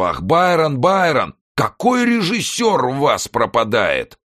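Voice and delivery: very high, loud, mocking cries; sarcastic hysterical yelling. A narrator's reading. Старик с издёвкой кричит на Байрона, истерически. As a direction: jeer at them in a frenzy.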